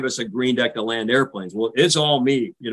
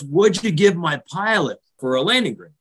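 rasping injured voice; 5 semitones higher than usual. Retold or imitated. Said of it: "he's wheezing and rasping".

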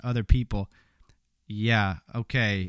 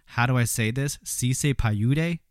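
mock clueless question. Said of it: "ask an aide".

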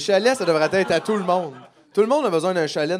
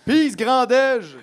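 drawn-out joke; 8 semitones higher, 6 dB louder, much slower than usual. Acted. Joking, laughing, drawn out.

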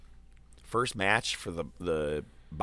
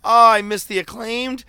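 much higher and louder, frantic disbelief; excited dismay; 14 semitones higher, 11 dB louder than usual. Retold or imitated. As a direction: wail it like you just missed your favourite act. Upset at missing the Acclaimed.

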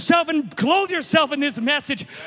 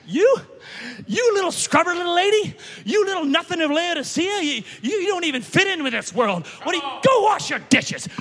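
scoffing, sneering put-down, voice pitched up; mocking scorn; 3 semitones higher than usual. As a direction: jeer at her like a mean cousin. Cousins mocking the little bride.

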